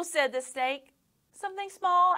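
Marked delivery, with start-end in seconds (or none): 1.3-2.1 put-on high, hopeful boy question; little boy hopefully asking; coaxing boy voice. A narrator's reading. Boy voice in story.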